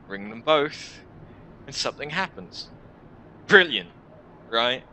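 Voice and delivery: lightly voiced, sardonic guide; jaded warrior. Warrior tells a newcomer about the bells, jaded and sardonic. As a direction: explain it with weary mock helpfulness.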